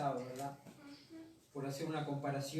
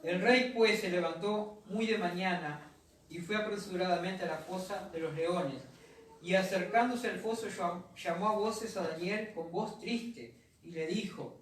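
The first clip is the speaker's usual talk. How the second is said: measured Bible reading to the congregation; scripture reading. Acted. Pastor reads Daniel to the church, measured scripture reading.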